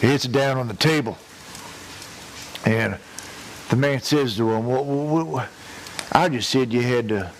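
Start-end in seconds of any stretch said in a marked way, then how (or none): 4.7-7.3 stunned disbelief. Retold or imitated. Man stunned Johnson drank all.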